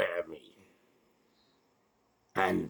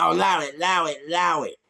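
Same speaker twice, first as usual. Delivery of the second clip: higher, louder, hurried pleading of allow it; mock pleading; 8 semitones higher, 5 dB louder, faster than usual. Man imitating two youths backing off, mildly panicked. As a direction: beg them to stop, lightly played. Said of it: "two of them suddenly went".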